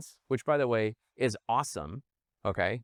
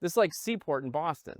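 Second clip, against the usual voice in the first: excited; 5 semitones higher than usual. Retold or imitated. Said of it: "you could see how excited he got".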